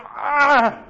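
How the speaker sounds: high grunted "ah"; Tim Allen. Acted. Preacher imitating a TV comic's grunt, high comic grunt. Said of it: "In the true spirit of Tim Allen".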